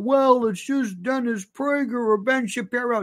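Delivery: lightly mimicking an excuse with scorn; mocking quote. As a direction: parody a dismissive excuse. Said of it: "don't give me this crap about".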